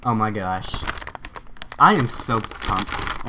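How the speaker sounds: slow, drawn-out excitement; pumped up. Real, not acted. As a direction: stretch it out, really pumped. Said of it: "this is my excited voice".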